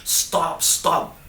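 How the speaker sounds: put-on breathy, slow, strained whisper of a begging child; retold little girl begging papa to stop, barely voiced; child's pleading cry. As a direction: imitate a terrified child pleading in a hushed, drawn-out voice. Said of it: "dia teriak benar-benar".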